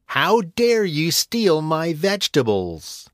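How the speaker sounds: furious, slow, high witch voice; angry witch. Acted. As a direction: snarl at the thief. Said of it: "he heard an angry voice".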